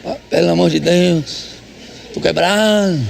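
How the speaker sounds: lightly voiced exhausted husband moaning; mock tired whine. Pastor mocks a tired husband dodging chores. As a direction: groan it like a worn-out husband.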